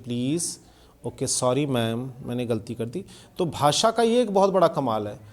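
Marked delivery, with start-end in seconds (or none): 0.0-3.0 polite sincere apology. Shown as a demonstration. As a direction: apologise gently like you truly mean it. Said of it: "सभ्यता के साथ बोलना चाहिए".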